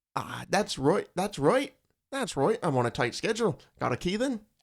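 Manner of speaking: poor attempted Australian accent. Reading a stranger's line aloud when asked to try it: attempted Australian accent. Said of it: "I don't think that was Australian".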